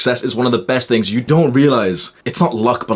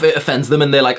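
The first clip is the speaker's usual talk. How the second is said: normal talking voice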